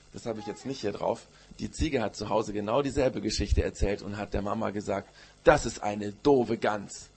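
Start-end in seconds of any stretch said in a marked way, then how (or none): 5.4-7.1 put-on very slow, stubborn child insult; huffy. Goat telling her mama about the silly goose, huffy. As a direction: drag out each word in a sulk.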